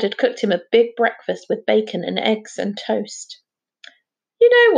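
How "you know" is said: hearty father blurting out loud; loud gruff dad voice. Acted. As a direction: boom it out, high and loud. Mister McPhee speaking to son.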